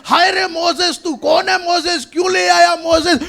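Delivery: mock wail of a grumbling crowd; crying out in complaint. Thirsty Israelites complaining to Moses, mild mock outcry. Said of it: "वो चिल्ला रहे हैं".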